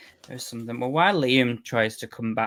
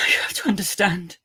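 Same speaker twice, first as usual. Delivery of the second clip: scared; 5 semitones higher than usual. Acted. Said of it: "reenact you being scared and seeing a ghost".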